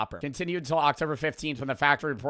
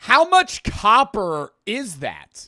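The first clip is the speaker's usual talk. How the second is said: slow, loud, higher disbelief; stunned; 6 semitones higher, 7 dB louder, slower than usual. Real, not acted. Co-host hearing about the stolen copper, slow stunned question. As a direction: drag it out in disbelief.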